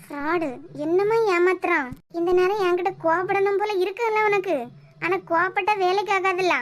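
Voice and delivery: loud, scornful taunt; scornful confrontation. Acted. Woman confronting boyfriend who fooled her, loud scorn.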